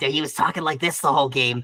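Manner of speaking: gremlin creature voice. Speaker describes a main character he voiced in a video game: gremlin character voice. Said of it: "kind of like a gremlin character".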